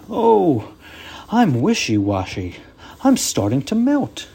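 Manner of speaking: high, loud dismayed snowman; melting snowman. Acted. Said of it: "Frosty exclaimed".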